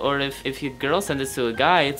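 a put-on accent wavering between German and a rich old dame; German rich old woman. Auntie Vilma hosting a crush video for viewers, in a put-on old lady accent. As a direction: play a grand old auntie with a shaky German-ish accent. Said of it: "I can't decide if I'm German or if I'm a rich old woman".

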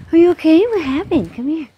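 high, worried coaxing; coaxing pet talk. Real, not acted. Owner coaxes her dog to come, high pet-talk voice.

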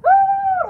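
high drawn-out shivery "oh"; shudder. Shown as a demonstration. Showing a reaction to cold, high shuddering oh. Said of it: "like that".

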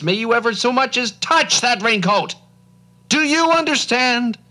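a sudden booming cry from the cloud maker. Acted. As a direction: boom it out to scare the boy. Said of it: "with a booming voice that scared and startled Nye, cried".

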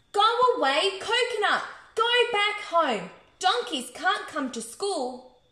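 teacher's shout. A narrator's reading. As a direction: shoo it off as a cross teacher, easing slightly.

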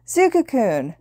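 high-pitched gleeful greeting; cheering. A narrator's reading. Mei greets her friend Zuku, cheering. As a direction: cheer his name in delight. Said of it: "Mei cheered".

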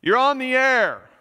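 a hint of a DJ taking a caller; radio host. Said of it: "the host of the radio show said".

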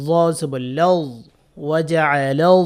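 "লাউ" closed on a heavy, held z sound; emphatic thick "য" held at the end of "লাউ"; thick Zha. Shown as a demonstration. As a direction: spell "য জবর লাউ" with a full-mouthed "য". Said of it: "য মোটা করে ধরতে হবে".

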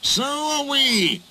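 high, drawn-out angry chorus voice; hostile retort. A narrator's reading. Engines answer tired Duck, high and hostile. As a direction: throw it back spitefully. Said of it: "hissed the engines".

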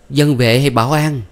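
loud, high pressing question; urgent demand. A narrator's reading. Mother chasing Thuận, demanding loud and high who the man is. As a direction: chase her with the question.

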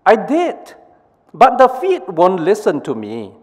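high, whiny excuse; exasperated hands. Acted. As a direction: hands complaining about the feet. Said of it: "the brain says to the hands".

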